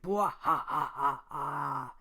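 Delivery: loud, spaced-out villain laugh; hammed-up "bwah ha ha" cackle; evil laugh. Mob boss gloats over cheap land, loud mock evil laugh.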